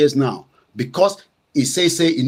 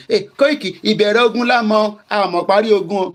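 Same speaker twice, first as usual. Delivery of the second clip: mocking critics; 6 semitones higher than usual. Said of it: "Now you can say".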